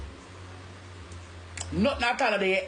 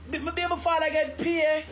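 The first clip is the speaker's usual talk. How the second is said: laughing disbelief; 6 semitones higher than usual. Real, not acted. Laughing at the news.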